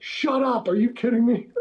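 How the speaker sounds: high, loud, laughing disbelief; astonished outburst breaking into laughter; stunned disbelief. Retold or imitated. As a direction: squeal it like you can't believe it, half laughing. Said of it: "And I was like".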